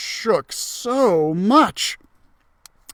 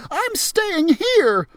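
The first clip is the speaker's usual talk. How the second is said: frightened refusal; 12 semitones higher, slower than usual. Acted. Terrified Geronimo refuses.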